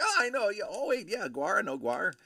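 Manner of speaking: high, loud burst of recognition; reenacted fan enthusiasm; excited recognition. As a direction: act out jumping in eagerly. Acts out eager recognition of band.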